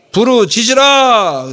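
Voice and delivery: slow, loud and high; preacher booming the command; emphatic cry. Acted. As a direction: call it out slowly and loudly. Preacher repeats the key command.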